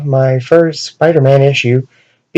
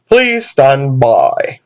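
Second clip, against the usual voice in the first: slow announcer voice; much slower than usual. Acted. Announcer cuts in again.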